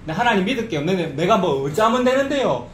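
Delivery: mildly acted exasperated agreement; argumentative back-talk. Preacher imitating the people answering God, mildly argumentative. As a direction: push back while agreeing. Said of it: "라고 지금 따지고 있는".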